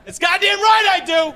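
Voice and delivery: high, slow defiant boast; hammed-up proud defiance; mock proud shopper. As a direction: puff up like a proud patriot. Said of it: "you're like".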